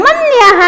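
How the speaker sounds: मन्यः ending in an echoed -ha; sounded visarga. Shown as a demonstration. Teacher models the proper reading, मन्यः with breathed ha. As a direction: finish मन्यः as man-ya-ha. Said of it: "मन्या नहीं पढ़ना है".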